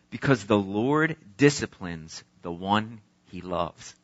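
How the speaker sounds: measured, earnest Bible reading; scripture reading. Acted. Pastor reading Hebrews aloud to church, earnest. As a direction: read the passage to the congregation.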